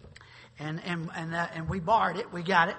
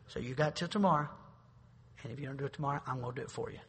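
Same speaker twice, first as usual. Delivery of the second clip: very kindly; 4 semitones lower, 6 dB quieter, faster than usual. Retold or imitated. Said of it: "what you do very kindly".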